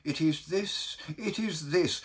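mildly overwrought, earnest lament; anguished Baker. Acted. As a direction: confide a dread that weighs on the soul.

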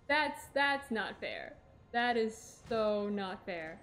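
slow, drawn-out sulky whine; whiny complaint. Real, not acted. Whining after falling back.

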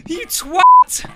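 startled angry yell at the screen; angry outburst. Real, not acted. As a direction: snap an insult after the fright. Cursing after a scare.

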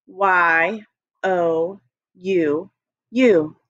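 Y O U spelled very slowly, letter by letter; slow spelling. Shown as a demonstration. Teacher leading the class in slowly spelling you. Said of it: "Say it with your eyes open".

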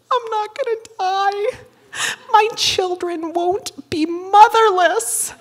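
high, slow quavering relief; mock tearful relief. Mother relieved she won't die, high teary voice. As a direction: overplay near tears.

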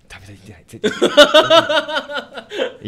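Maehira Jin impression. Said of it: "前平仁さん".

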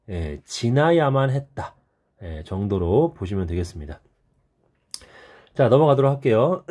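husky, throat catching; a tight, hoarse throat. Real, not acted. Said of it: "목이 좀 잠겨갖고".

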